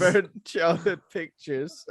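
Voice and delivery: slow, loud, drawn out; slow dramatic. Pretend. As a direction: stretch it out ominously. Mocking the line, drawn out.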